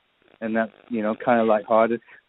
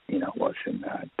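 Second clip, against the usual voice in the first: hushed whisper; 6 dB quieter than usual. Retold or imitated. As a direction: whisper "what's in that" unvoiced, hushed. Retold peek into sealed room.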